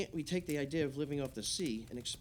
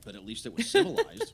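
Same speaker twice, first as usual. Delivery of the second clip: sudden much higher, louder exclamation; emphatic punchline; 11 semitones higher, 10 dB louder than usual. Real, not acted. Wrapping up the Kennedy-Reagan story, loud emphatic punchline. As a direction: land the joke with a big lift. Punchline after debate praise.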